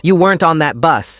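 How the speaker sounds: acted reproach from an upset parent; accusing parent. A narrator's reading. Another parent confronts the superintendent.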